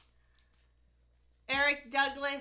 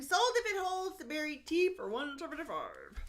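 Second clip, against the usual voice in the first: auctioneer. Pretend. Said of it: "is that an official auctioneer's voice".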